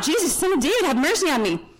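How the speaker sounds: high-pitched retold call, easing down at the end; mock yell. Blind beggar calling to Jesus for mercy, mild mock yell. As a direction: call out for mercy, without much added volume. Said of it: "he starts yelling out".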